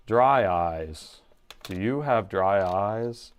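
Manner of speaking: slow flat dry eyes ad voice; monotone commercial voice. Retold or imitated. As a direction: drone like a deadpan commercial guy. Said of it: "What was that commercial".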